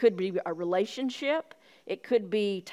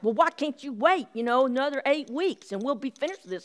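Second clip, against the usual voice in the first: mildly whiny mock protest, pitched higher; higher-pitched imitation of an upset complaint; retold hissy fit; 5 semitones higher than usual. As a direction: lightly imitate a woman throwing a fit. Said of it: "pitched a hissy fit".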